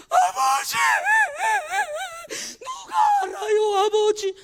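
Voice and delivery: very high, loud crying plea; loud wailing cry to the Father; wailing prayer. Pretend. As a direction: sob out to the Father in the sanctuary. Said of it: "눈물 흘리며 대성통곡하는".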